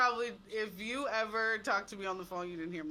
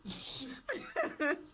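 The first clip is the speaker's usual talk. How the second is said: phone laugh; 9 semitones higher than usual. Shown as a demonstration. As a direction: give a short polite phone laugh. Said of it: "That's more like my phone laugh".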